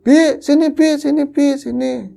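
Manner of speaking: calling out. Retold or imitated. Calling the neighbour over.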